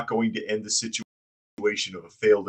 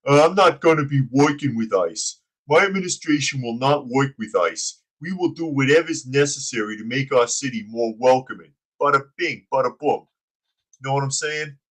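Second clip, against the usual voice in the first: dumb henchman voice; 4 semitones higher than usual. Pretend. Host mocking the mayor's quote as a dumb henchman. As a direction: play the mayor as a dim wiseguy, bada bing. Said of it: "You make him sound like a dumb henchman".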